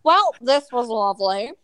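mocking sign-off sing-song; imitating tagline. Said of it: "You end that every show".

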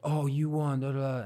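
going off. Retold or imitated. Imitating the rival judge reacting to his win, going off. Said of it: "he's, like, going off".

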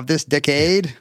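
slowly imitated "decade", stressed de-CADE; Kennedy impression. Host quoting Kennedy's speech, slow "decade" as de-CADE. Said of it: "Remember how Kennedy always said".

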